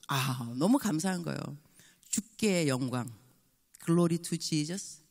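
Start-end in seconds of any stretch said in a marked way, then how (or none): 2.1-5.0 reverent slow. Acted. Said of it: "closing blessing".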